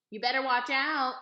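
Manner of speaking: put-on loud boy's holler; shouted kid warning. A narrator's reading. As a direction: yell the warning after her. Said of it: "Dunlap hollered".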